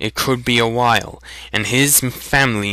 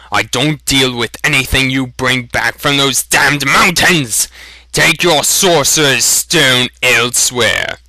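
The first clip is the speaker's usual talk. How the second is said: angry; 3 semitones higher, 3 dB louder than usual. Acted. Shopkeeper rages at boy.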